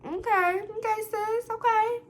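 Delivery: sassy disbelief, climbing up; sarcastic okay. Real, not acted. Friend mocking the accusation with a sassy okay sis.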